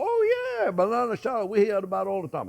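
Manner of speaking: mock know-it-all French voice, high Oh; a hint of smug French locals answering him; imitating French people. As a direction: lightly play a French person who claims to know it. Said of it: "some French people are gonna go".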